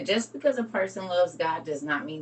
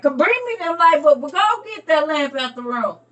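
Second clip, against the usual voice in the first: a hint of eager bossy voice, higher and louder; lightly voiced demanding viewer; 7 semitones higher, 5 dB louder than usual. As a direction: imitate an excited viewer. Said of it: "Y'all like".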